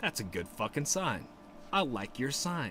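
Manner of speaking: normal talking voice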